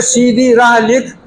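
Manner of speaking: slow, drawn-out dictation. Acted. Teacher dictating Urdu to an eighth grader, slow dictation. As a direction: dictate it word by word, slowly. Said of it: "उसको बोल रहे".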